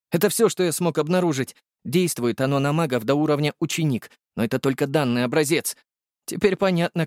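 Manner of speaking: high, wondering voice speeding up at the end; the potion maker baffled by the elixir; puzzled alchemist. Acted. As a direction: puzzle it out aloud, climbing high. Volodya concludes.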